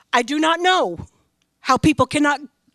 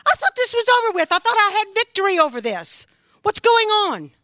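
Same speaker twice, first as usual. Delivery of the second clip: retold anguish; 8 semitones higher than usual. Retold despairing thought, crying time.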